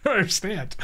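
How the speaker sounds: high, laughing bewilderment; laughing disbelief. Real, not acted. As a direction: laugh through confused questions. Baffled by plot, laughing.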